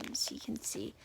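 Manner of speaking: soft whispered aside; whispering. Real, not acted. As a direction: whisper it while showing the book. Aside while showing the book.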